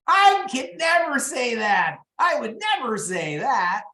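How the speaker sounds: high, slow, mocking inner critic; drunk monkey voice. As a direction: sneer it like a tipsy inner voice. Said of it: "a drunk monkey going".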